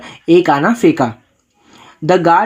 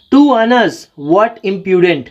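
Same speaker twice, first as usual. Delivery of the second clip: a teacher's lightly acted indignant shout, pitched up; mock shout; 2 semitones higher, much slower than usual. Teacher reading the rich merchant scolding the vendor, mock indignant shout. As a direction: read the merchant's outburst with a raised, affronted voice. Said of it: "सेठ जी shouted".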